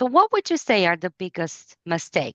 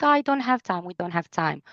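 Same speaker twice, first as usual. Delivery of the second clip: mock complaint. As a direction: whine like a rushed parent. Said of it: "everyone is like".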